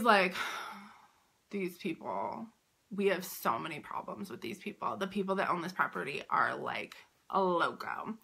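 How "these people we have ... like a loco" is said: police officer quietly tipping off the vendors, hushed to a whisper; hushed confiding cop. Retold or imitated. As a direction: lean in and whisper it like a secret tip. Cop confiding about the owners.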